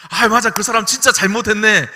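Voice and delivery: loud, high, eager siding with her; eager agreement. Acted. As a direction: jump in fully on her side. Ideal spouse siding with wife.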